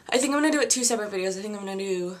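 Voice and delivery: breathless, rushing the words; out of breath. Real, not acted. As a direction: talk while still panting from stairs. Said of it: "I'm so out of breath".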